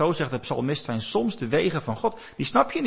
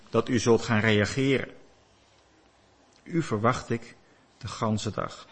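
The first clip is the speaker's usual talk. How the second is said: prayerful; 5 semitones lower, 4 dB quieter than usual. Shown as a demonstration. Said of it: "om te bidden tegen God en dan te zeggen".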